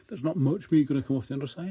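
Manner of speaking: talking through a yawn; words stretched by a yawn. Real, not acted. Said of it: "Excuse me for yawning".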